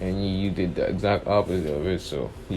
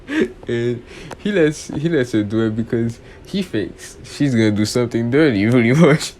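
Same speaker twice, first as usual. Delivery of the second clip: laughing while telling; 2 semitones higher, 4 dB louder than usual. Real, not acted. Laughing through narration.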